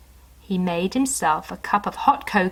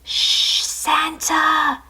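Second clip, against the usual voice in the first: higher hushed voice; snowman whisper; 8 semitones higher, much slower than usual. Acted. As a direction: hush him gently. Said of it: "whispered the snowman".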